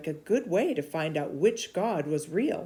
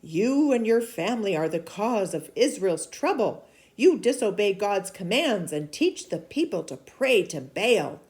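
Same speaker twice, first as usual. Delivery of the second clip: a firm, louder prophet's voice; stern prophet rebuking; 4 semitones higher, 5 dB louder than usual. Acted. Elijah rebuking King Ahab, stern and loud. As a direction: scold the king like a bold prophet.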